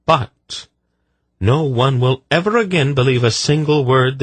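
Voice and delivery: solemn, commanding curse; stern sorceress. Acted. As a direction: pronounce the curse with cold authority. Polgara pronounces a curse.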